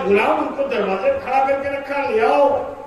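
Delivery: loud, high, eager command; master's order. Acted. Master orders servant, loud and high. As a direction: call it out like an impatient master. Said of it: "اس نے کہا".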